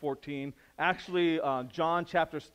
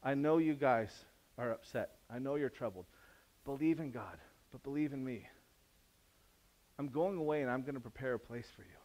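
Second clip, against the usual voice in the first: gentle Jesus. Retold or imitated. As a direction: comfort them gently.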